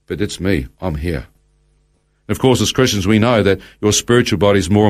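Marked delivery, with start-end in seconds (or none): 0.1-1.3 softer, lower, to himself; bewildered thought. Retold or imitated. Speaker recounts his thought on finding himself bodiless, quietly bewildered. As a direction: think it aloud, quietly puzzled.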